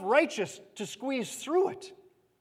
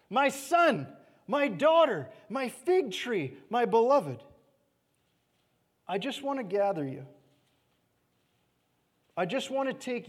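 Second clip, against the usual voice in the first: crying over you; 2 semitones lower than usual. Acted. God crying over his children, tender pleading. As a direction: plead gently, letting it fade. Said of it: "God could be crying over you".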